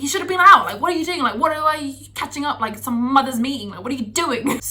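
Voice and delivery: berating the guard, exasperated; retold scolding. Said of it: "I saw red".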